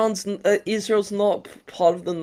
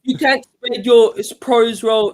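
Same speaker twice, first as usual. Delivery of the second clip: real agitated protest, higher and louder; worked up, raised voice; emotional; 5 semitones higher, 4 dB louder, slower than usual. Real, not acted. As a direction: push the accusation out heatedly. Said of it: "why are you getting so emotional?".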